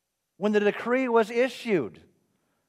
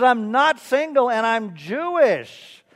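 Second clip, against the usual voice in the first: slow, higher, louder mock-tearful confession; mock weeping; 4 semitones higher, 5 dB louder, slower than usual. Driver admitting he lied to the nun, mock weeping. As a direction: drag it out as a pretend sob story. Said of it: "He begins to weep, almost uncontrollably".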